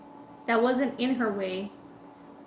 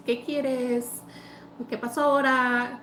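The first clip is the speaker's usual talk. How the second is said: drawn-out, less curt question; how it wasn't said. Shown as a demonstration. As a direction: ask it lightly, stretching the words. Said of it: "it wasn't said like".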